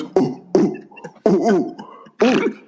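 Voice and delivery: short, spaced-out oohs; imitated ooh noises. Man mimics his friend five hours later, short mock oohs. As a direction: hoot "ooh" in separate bursts.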